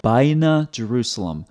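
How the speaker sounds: "Baina Jerusalem" with an English J; quoting his mistake; imitating his phrase. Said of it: "What is he talking about".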